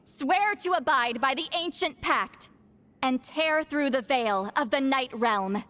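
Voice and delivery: solemn, measured chant to the spirits; ritual incantation. Acted. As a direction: intone each line like a sacred rite. Citlali continues the incantation.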